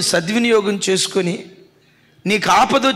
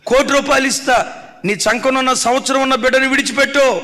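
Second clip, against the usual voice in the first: raised mock king's offer; 4 semitones higher than usual. Preacher playing Solomon tempting the mother, raised mock offer. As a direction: haggle like a king at an auction, pushing up the price.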